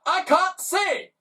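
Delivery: high, slow panicked cry; husband's panicked cry; panicked exclamation. Acted. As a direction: blurt it out blinded. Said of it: "exclaimed Mister Glutton".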